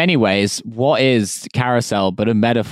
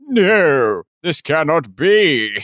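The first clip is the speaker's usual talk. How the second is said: computer voice; 4 semitones higher, much slower than usual. Acted. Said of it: "And then the computer goes".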